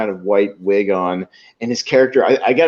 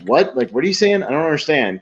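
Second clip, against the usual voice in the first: higher, puzzled questions; baffled straight man; 4 semitones higher than usual. Retold or imitated. Straight man hearing Serge's nonsense, baffled. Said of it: "he's just like".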